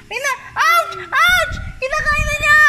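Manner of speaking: yelping. Real, not acted. Being bitten, cries out.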